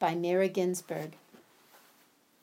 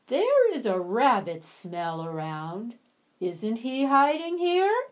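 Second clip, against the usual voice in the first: slow, louder suspicious probing; suspicious fox; 3 semitones higher, 6 dB louder than usual. Acted. Fox sniffing near the mushroom, slow and suspicious. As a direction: sniff out the lie slowly.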